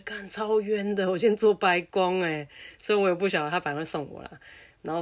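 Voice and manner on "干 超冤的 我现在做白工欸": aggrieved grumble. Retold or imitated. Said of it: "然后我就觉得".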